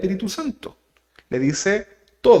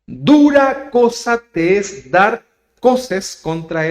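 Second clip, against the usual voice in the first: voice of Jesus; 4 semitones higher, 4 dB louder, much slower than usual. Acted. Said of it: "le dice Jesús a este Saulo".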